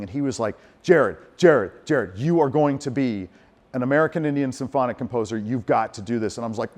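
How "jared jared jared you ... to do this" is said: thundering narrator imitation. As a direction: lightly imitate an emphatic, commanding actor. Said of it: "came in like thunder and lightning".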